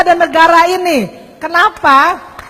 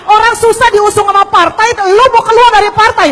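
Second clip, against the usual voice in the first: higher-pitched, mildly indignant protest; retold anger; 5 semitones higher, 4 dB louder than usual. Preacher retells friends objecting to Ahok leaving party, mock anger. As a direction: imitate friends scolding, half-earnest. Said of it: "teman-temannya pada marah".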